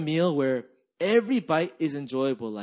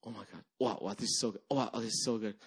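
softer, hushed mock wonder at the food; awed murmur; 7 semitones lower, 7 dB quieter, faster than usual. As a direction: murmur it like the taste stuns you. Retells friends' reaction to food.

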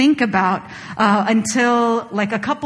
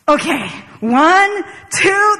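higher and louder, bracing to say it; nervous countdown; 8 semitones higher, 4 dB louder, much slower than usual. Retold or imitated. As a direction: count up nervously, working up nerve. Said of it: "psyching myself up".

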